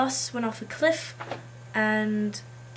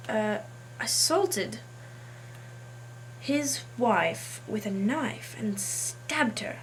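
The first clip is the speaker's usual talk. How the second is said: put-on English accent. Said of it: "I've decided today to do an English accent".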